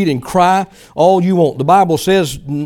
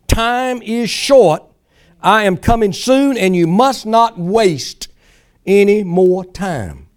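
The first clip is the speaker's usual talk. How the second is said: prophetic reading; 2 semitones higher than usual. Acted. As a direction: deliver it as God's urgent word. Reads out a word from God.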